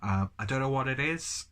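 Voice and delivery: stuffy voice from a head cold; blocked nose. Real, not acted. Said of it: "excuse the horrific sounds that are coming out of my nose".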